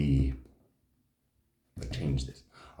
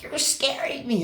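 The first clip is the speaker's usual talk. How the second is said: imitating scared girlfriend. Girlfriend pleading in car.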